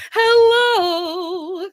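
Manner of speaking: high, loud, drawn-out hello; big stretched-out greeting; excited greeting. Real, not acted. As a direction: sing out a delighted welcome. Welcoming the guest on air.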